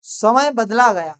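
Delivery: teacher dictating to class, slowly; slow dictation. Shown as a demonstration. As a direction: read it slowly for them to write. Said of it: "next sentence है".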